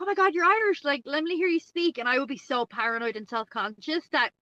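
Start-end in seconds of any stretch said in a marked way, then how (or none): 0.0-2.0 high, excited mock-American fuss; gushing Americans. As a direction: imitate Americans thrilled by an accent, pitched up. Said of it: "typically the Americans are like".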